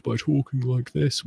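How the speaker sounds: lightly imitated voice of authority; authoritative put-on voice. Explaining the Elizabeth Holmes trick, lightly mimicked authoritative voice. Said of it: "trying to be more authoritative".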